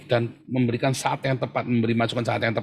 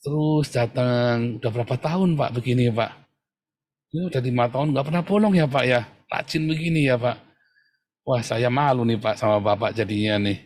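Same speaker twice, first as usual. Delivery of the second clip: gentle praise demo; 3 semitones lower than usual. Shown as a demonstration. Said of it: "Anda caranya gimana?".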